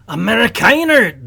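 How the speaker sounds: a loud, high startled yell; yelled Amerikaner. Acted. German soldier yells at the intruder, loud high shout. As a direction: shout it like a soldier caught off guard. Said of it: "the German yells".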